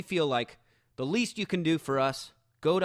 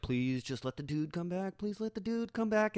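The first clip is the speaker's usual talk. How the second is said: retold pleading, climbing higher and higher; desperate pleading; 7 semitones higher, 3 dB quieter than usual. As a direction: beg anxiously, pitch rising as you repeat it. Silently begging in an embarrassing wait.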